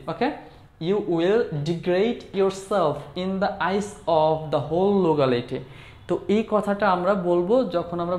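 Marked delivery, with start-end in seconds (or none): 0.8-5.6 slow model phrase. Shown as a demonstration. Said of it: "এই কথাটা যদি আমরা ইংলিশে বলতে চাই".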